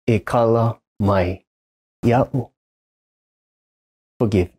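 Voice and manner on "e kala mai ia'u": slow, careful Hawaiian "E kala mai ia'u"; Hawaiian apology. Shown as a demonstration. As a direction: say "E kala mai ia'u" slowly, each syllable clear. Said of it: "too proud to say".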